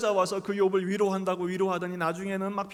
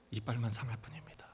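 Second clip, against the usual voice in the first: whispered punchline; 7 semitones lower, 8 dB quieter than usual. Acted.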